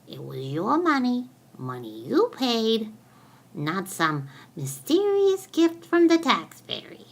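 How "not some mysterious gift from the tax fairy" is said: teasing scoff. Acted. Mocking the tax fairy idea.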